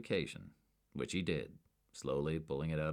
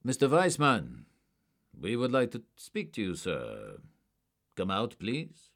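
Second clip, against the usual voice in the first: loud, raised call into a room; 5 semitones higher, 5 dB louder than usual. A narrator's reading. Agent calling a suspect out of hiding, loud. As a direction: project the voice to someone out of sight.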